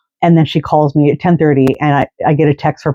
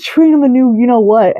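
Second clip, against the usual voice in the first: imitating the woman; 9 semitones higher than usual. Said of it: "She says".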